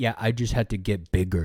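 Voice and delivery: put-on caveman voice. Quoting Michael Jordan from The Last Dance: caveman-like Michael Jordan impression. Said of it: "You sound like a caveman".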